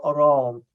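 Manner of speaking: "Arán" with the stress on the second syllable, -rán. Shown as a demonstration. Guest explaining Norman influence on "Arán", stressing -rán. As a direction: lean on -rán in "Arán", let the first syllable slip by. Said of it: "we put the stress on the fir-, on the second syllable".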